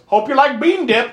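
quoting Jack Black. Retold or imitated. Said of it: "he gets in the car and goes".

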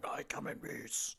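slow, whispered alien voice. Retold or imitated. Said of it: "alien voice going".

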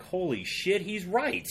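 high, half-laughing exclamation of discovery; stunned realization. Real, not acted. Guest realizing his friend was right, high laughing surprise. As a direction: crack up as it dawns on you.

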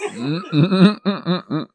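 closed-mouth giggling hums; stifled giggles at the fart joke punchline; suppressed laughter. Real, not acted. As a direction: try to hold in the laugh.

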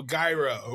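"gyro" with a hard G, GUY-ro; variant pronunciation. Shown as a demonstration. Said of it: "what is the correct way".

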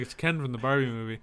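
"It's Ken from the Barbie movie" rattled off fast; fast patient answer. Retold or imitated. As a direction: rush it like explaining the obvious. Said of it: "So I was just like".

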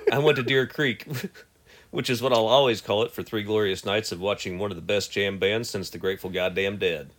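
reading with a cigarette in mouth. Shown as a demonstration. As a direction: talk around a lit cigarette. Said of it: "let me light a cigarette".

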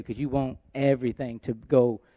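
usual speaking voice

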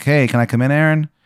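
a lightly done, bad Maryland accent; terrible Maryland accent. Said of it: "the worst Maryland accent you have ever heard".

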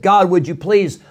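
imitating an urgent prayer; pleading. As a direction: plead with God, pressing on "please". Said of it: "Daniel is begging God".

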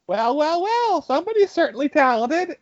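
high, arch "well, well, well"; mock-impressed manager. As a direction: imitate the boss, archly impressed. Manager catches him, mocking.

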